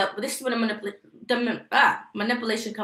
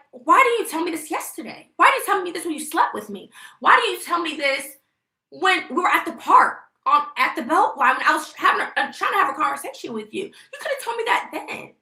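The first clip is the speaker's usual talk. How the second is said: higher, pressing accusing questions; retold angry confrontation; 4 semitones higher than usual. Retelling how she confronted her ex over the court date, heated and accusing. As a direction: fire the questions at him, rising each time.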